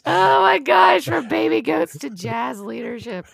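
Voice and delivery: slow, awed recital. Acted. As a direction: savor each word in wonder. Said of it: "awed recital of the slogan".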